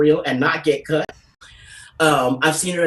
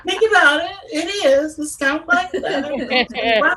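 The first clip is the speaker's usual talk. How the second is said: amused insistence; 11 semitones higher, slower than usual. Real, not acted.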